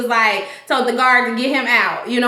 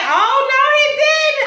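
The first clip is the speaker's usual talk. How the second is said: mock shock; 12 semitones higher, slower than usual. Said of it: "I was like".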